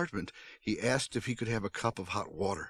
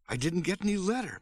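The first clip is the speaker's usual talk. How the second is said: high, contained storyteller's scream; exasperated cry, pitched well up; still screaming; 8 semitones higher than usual. A narrator's reading. Mother screaming denial at the visitor, high-pitched. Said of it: "my mother was still screaming".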